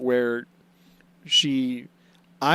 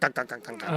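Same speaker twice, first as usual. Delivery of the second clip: new honking; 2 semitones lower, 8 dB quieter, much faster than usual. Acted. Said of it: "That's my new honking".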